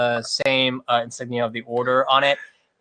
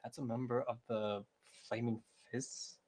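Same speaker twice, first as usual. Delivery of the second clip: much softer, slow grumble under the breath; muttering to himself; 21 dB quieter, slower than usual. Acted. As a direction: mutter it so nobody hears. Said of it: "he mutters to himself".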